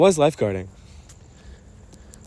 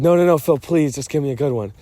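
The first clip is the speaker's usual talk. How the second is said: pleading friend; 4 semitones higher, 6 dB louder than usual. Retold or imitated. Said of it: "and you're like".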